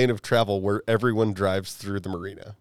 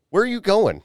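retold grilling, high and insistent; third degree; 11 semitones higher, 4 dB louder than usual. Speaker retells grilling the stranded driver, third degree. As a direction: fire questions at him in a raised pitch. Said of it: "I'm giving the guy the third degree".

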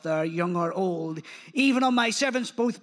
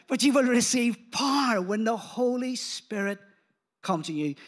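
proclaimed with a shout. Shown as a demonstration. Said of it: "Everyone say after three".

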